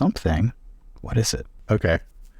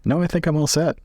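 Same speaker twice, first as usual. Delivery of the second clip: lightly raised polite traveller; James in character; 9 semitones higher, faster than usual. Acted. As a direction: decline the offer politely, a bit higher. Player voices James to NPC.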